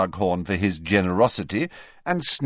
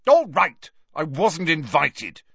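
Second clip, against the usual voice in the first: put-on sharp, raised boy's retort; angry; 7 semitones higher, 4 dB louder than usual. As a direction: snap back defensively, loud. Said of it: "he said angrily".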